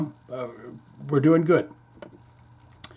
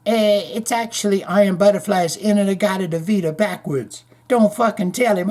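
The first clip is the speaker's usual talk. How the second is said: high put-on accent, stretched at the end; high mock-accented ghost voice; a guitarist; 5 semitones higher than usual. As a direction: imitate a guitarist's accent, rising to a wail. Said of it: "and then he adopted the guitarist's accent".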